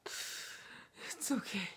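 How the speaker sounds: slow, soft whispered reassurance; whispered comfort. Acted. Vlogger soothing his dying brother, slow whisper. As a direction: breathe it out slowly as if to a dying man.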